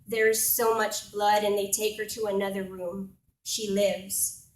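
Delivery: measured, emphatic spoken-word delivery; poetry recital. Acted. Poet telling an audience of a passion play, reciting. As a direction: recite it line by line with weight.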